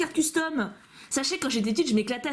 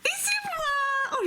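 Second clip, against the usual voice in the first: delighted squeal; much slower than usual. Real, not acted. Finds drawing of herself.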